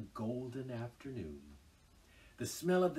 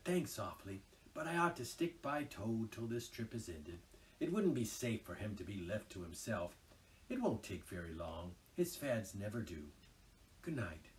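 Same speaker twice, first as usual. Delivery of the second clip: whispered; 3 semitones lower, 5 dB quieter than usual. Acted. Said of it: "whispered back the rat".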